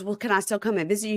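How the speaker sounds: lightly voiced girlfriend; mock girlfriend. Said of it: "she goes".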